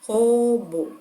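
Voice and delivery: ROBÔ broken into two beats, "Ro - bô"; dividido em sílabas. Shown as a demonstration. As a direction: say Robô syllable by syllable, pausing between them. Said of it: "Vocês podem bater palma como uma forma de contar". (Robô separado em sílabas, ro... bô)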